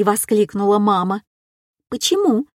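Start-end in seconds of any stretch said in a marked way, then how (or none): 1.9-2.5 высоко взлетевшее удивлённое почему; искренне удивиться, как ребёнок; удивлённо. A narrator's reading. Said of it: "удивилась девчушка". (девочка удивлена запретом маме)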